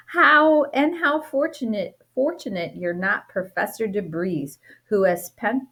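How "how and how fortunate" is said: excited. Acted. Exclaimed story reading.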